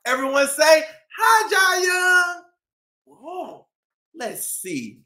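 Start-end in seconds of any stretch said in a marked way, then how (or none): 0.1-2.5 calling out. Acted. Host prompts kids to greet.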